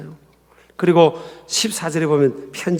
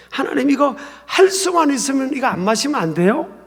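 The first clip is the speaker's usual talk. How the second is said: higher-pitched pleading question, rising at the end; mild plea; 5 semitones higher than usual. Acted. Son asking God to spare him the cup, mild plea. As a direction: ask it like a son appealing to his father. Acting Jesus pleading with the Father.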